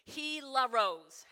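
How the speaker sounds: Hilaros said slowly as HEE-la-ros; Greek pronunciation. Shown as a demonstration. Pastor teaching the congregation the Greek word, said slowly. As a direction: spell it out, then say Hilaros carefully, slowly. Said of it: "I am going to spell the Greek".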